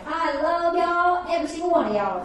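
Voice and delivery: hammed-up tipsy affection; imitated gushing mom. Tipsy mom's declaration to friends, retold.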